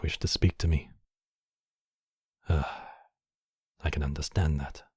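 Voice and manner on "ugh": short exhaled ugh; breathy sigh of mild frustration; weary sigh. Acted. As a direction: let out a resigned sigh. Sighs at the silent captive.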